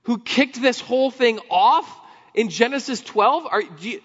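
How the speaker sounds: high, loud, indignant challenge; incredulous religious leaders. Retold or imitated. Temple leaders confronting Jesus, high and outraged. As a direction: demand it like offended temple elders.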